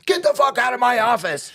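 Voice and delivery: high, sharp throw-out; mock angry order. Lieutenant throws the inmate out, mock angry. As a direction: kick him out of the office. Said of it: "He goes".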